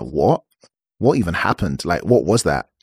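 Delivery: mildly baffled, low-pitched questioning; a touch of confused disbelief; retold confusion. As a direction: act out bewilderment under your breath. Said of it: "from denial to confusion".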